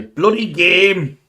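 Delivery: drawn-out shout of "Bloody game!"; imitating Steve. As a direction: ham up a friend's catchphrase, slowly. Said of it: "hear you say".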